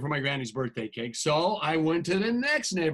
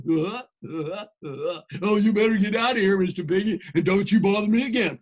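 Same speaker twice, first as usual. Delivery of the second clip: loud, fast snappy pig voice; rude retort; 4 dB louder than usual. Acted. Rude pig answering the wolf, loud fast retort. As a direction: tell the wolf off rudely. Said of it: "this rude little porker answered".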